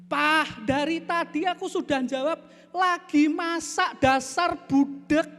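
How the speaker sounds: high, loud exasperated scolding; acted fed-up wife yelling back; angry wife. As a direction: scold your husband, slowing hard on the final insult. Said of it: "istrinya balik sambil marah-marah".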